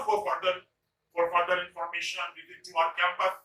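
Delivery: slow, careful sign reading. Shown as a demonstration. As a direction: read it out slowly like a notice. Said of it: "जो लिखा होता है ना". (धीमे से पढ़ा गया नोटिस)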